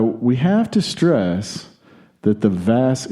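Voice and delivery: lightly attempted Aussie accent; put-on Australian accent. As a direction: read the quote with a hint of bad Australian. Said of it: "he didn't say it in this accent".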